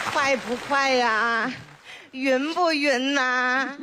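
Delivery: put-on chatty old granny voice, fond and teasing; village grandma. Grandma to her neighbour and baby granddaughter, fondly teasing. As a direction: play a proud grandma showing off her grandchild.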